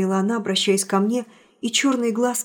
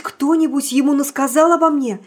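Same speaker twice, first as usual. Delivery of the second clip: cried out; 3 semitones higher, 5 dB louder than usual. Acted. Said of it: "закричала она".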